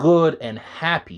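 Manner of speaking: the word "happy" stressed, drawn out slowly. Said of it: "I can't emphasize the word happy enough".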